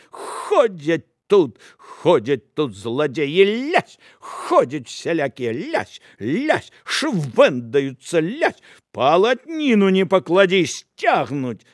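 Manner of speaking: slow loud scolding between slaps; woman beats the apostles with dough; angry railing. Acted. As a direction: rant while hitting them.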